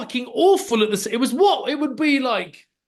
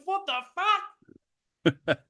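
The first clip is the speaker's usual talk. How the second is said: stunned quote; 9 semitones higher, 4 dB quieter, much slower than usual. Retold or imitated.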